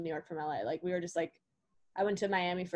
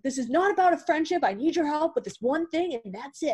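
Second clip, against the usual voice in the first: firm retold demand; 8 semitones higher, 4 dB louder than usual. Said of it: "I ended up calling him".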